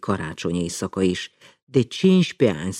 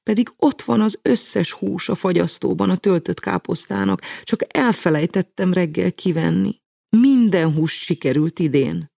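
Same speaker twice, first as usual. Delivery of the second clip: high head voice, making excuses; falsetto apology; 8 semitones higher, 3 dB louder than usual. A narrator's reading. Mama excuses herself to the girls in falsetto. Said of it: "fejhangon szabadkozni kezdett".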